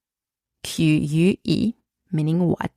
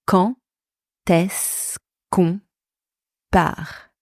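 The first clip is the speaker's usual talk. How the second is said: slow breakdown; slower than usual. Shown as a demonstration. Teacher modelling "when are we leaving", slowly segmented. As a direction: piece by piece, pausing between chunks.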